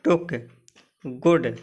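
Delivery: टुक, गुड each with a short 'u'; brief vowel in टुक and गुड. Shown as a demonstration. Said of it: "double ओ का उच्चारण ह्रस्व उच्चारण है".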